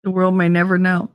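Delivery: lightly mocked ad announcer, quick then slowing; a hint of an old TV candy ad; commercial voice-over. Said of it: "reminds me of the Tootsie Pop commercials".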